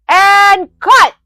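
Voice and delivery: retold mock cry of a director wrapping a shoot; mock director call. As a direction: call the end of a take to save a friend from embarrassment. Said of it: "we were just like".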